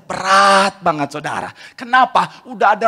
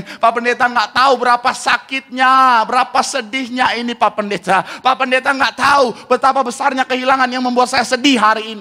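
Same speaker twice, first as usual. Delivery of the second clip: tag; 4 semitones higher than usual. Acted. Voicing a hurt listener's protest.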